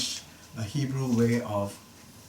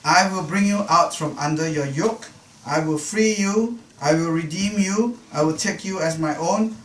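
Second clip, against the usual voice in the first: raised, louder voice on each promise; God's promises, proclaimed point by point; emphatic promises; 5 semitones higher, 5 dB louder than usual. Acted. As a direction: declare each promise firmly, high and strong. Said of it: "very concretely, very specifically".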